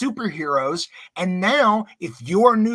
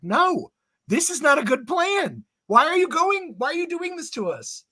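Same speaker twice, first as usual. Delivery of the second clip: high pleading, whiny at the end; mock pleading voice; 9 semitones higher than usual. Host voicing a dismayed voter, high whiny plea.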